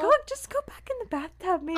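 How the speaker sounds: put-on high, slurred drunken mumble; sloppy drunk guy voice. Quoting drunk roommate.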